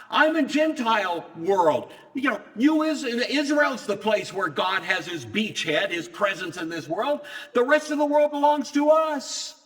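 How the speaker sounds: a demon staking its claim; territorial demon. Retold or imitated.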